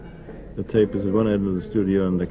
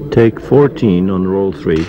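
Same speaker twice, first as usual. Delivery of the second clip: loud slate call; 9 dB louder than usual. Real, not acted. Slate call before a take.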